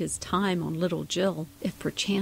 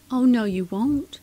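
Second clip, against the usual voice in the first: higher, louder defiant insistence; insistent; 4 semitones higher, 6 dB louder than usual. A narrator's reading. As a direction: stand your ground. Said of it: "insisted the kid".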